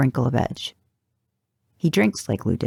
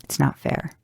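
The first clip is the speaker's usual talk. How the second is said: whispered complaint; 4 dB quieter than usual. A narrator's reading. Inner complaint in story.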